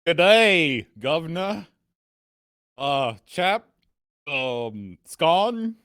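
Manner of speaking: a silly fake English gentleman's accent. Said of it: "let's hear, like, an English accent".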